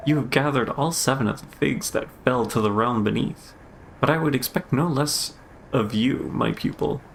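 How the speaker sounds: lightly voiced formal master, measured; a hint of grave, composed authority. Master accepting figs from a pupil, lightly formal.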